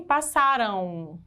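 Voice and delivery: "Passaram" drawn out, final M sounding as U. Shown as a demonstration. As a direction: say "Passaram" slowly, ending in a nasal U sound. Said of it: "eu tenho som de U aqui".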